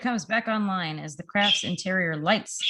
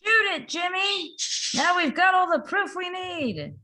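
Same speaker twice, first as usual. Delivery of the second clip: urgent call; 7 semitones higher than usual. Acted. Reporter urging photographer on roof.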